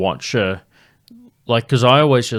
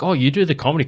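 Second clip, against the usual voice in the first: put-on higher, louder American Southern accent; 6 semitones higher, 5 dB louder, much faster than usual. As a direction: impersonate a country singer with an American Southern accent. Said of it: "had an American Southern accent".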